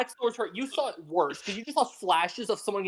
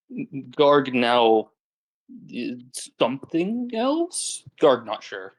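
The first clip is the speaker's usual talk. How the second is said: ogre; 2 semitones lower, slower than usual. Acted. Player speaks as the ogre Garg.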